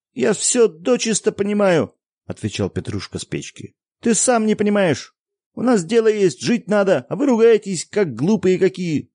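put-on high, loud indignant boy; boy shouting. A narrator's reading. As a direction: shout at the father like a hurt child. Boy scolding his father.

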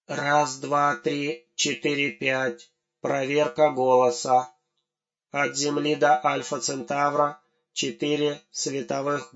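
soft, nasty lisping robot voice; a robot lisping through a voice check. Acted. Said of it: "противным шепелявым голосом проговорил".

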